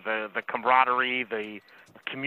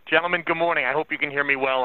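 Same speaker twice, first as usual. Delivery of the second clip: muffled through a face mask; talking through a mask; 3 semitones higher than usual. Real, not acted. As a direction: speak muffled behind a mask. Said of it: "I am talking through my mask".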